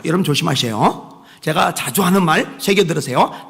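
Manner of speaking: normal talking voice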